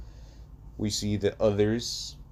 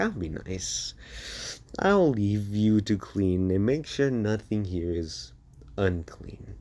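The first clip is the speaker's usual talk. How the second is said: menacing smile. Acted. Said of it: "a menacing smile".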